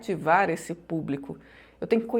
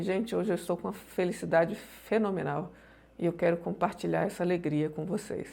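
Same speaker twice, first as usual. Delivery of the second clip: happy words said flat and softer, no joy; flat joyless delivery; 6 dB quieter than usual. Shown as a demonstration. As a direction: say it with no feeling at all, a bit quiet. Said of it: "não adianta eu falar assim". (fala sem emoção, mais baixo)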